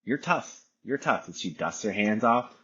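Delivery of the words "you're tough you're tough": high, bright encouraging dad voice; dad coaxing his daughter up; pep talk to toddler. Retold or imitated. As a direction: cheer the little girl on. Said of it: "And I'm like".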